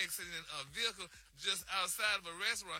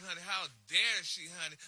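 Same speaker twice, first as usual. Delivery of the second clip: mock outrage; 4 dB louder than usual. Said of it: "People are saying".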